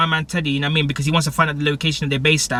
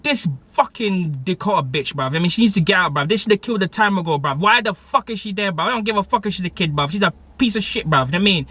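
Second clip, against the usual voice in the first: higher-pitched heated rant at a TV character; worked-up complaint, every line ending on bruv; mad rant; 5 semitones higher than usual. Retold or imitated. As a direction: vent like you can't believe her. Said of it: "I was mad".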